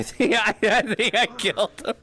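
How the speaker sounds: laughing. Real, not acted. Laughs at accidental kill.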